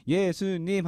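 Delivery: 높고 크게 외치는 "예수님"; crowd cheering name. Retold or imitated. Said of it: "사람들이 하니까". (군중처럼 환호하며 부르는 예수님)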